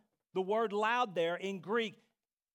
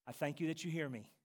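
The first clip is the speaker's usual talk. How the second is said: low, soft, quick prayer; murmured thanks to God; praying; 4 semitones lower, 6 dB quieter, faster than usual. Acted. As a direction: pray it low and softly. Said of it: "began to pray".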